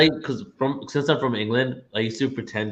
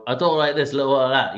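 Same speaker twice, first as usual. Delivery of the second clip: higher Cockney slang with dropped consonants; Cockney accent; 3 semitones higher, faster than usual. Shown as a demonstration. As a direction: demonstrate broad Cockney slang. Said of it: "I had Cockney English".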